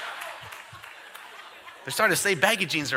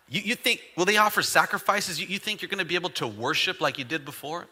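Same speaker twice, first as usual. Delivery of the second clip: mocking taunt. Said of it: "He was mocking their worship right there".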